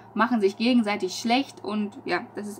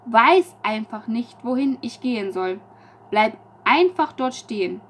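raised, slow, searching recital of her own lines; poem reading; 2 semitones higher, 5 dB louder than usual. Acted. Poet reads her own lines to viewers, slow and raised. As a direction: read the poem out as if lost between two choices.

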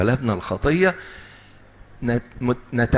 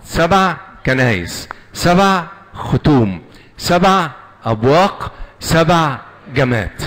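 slow, louder, punching each سبع; slow counted emphasis; 5 semitones higher, 4 dB louder, slower than usual. Shown as a demonstration. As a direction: drill each سبع slowly with the congregation. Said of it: "نرسم الصليب بقى مع بعض". (تشديد بطيء وعالي على كلمة سبع)

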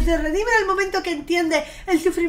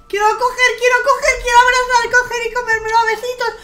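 gushing cutely; 9 semitones higher, 7 dB louder than usual. Real, not acted. Streamer gushing at the chick, high loud coo. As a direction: coo like you want to hug it. Gushing over the baby bird.

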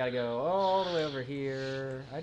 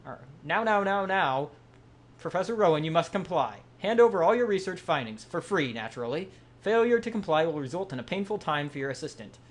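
lightly hammed threatening villain, raised; demanding henchman, a touch louder; 4 semitones higher, 4 dB louder than usual. Reads villain grunt dialogue.

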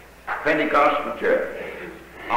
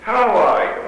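"How are you?" asked gently, rising a little higher; gentle greeting; 7 semitones higher than usual. Retold or imitated. Visiting preacher greets the puzzled young man gently. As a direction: ask kindly, like a friend at the door. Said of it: "very gentle and says".

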